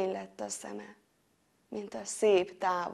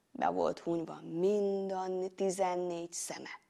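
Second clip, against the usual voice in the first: usual speaking voice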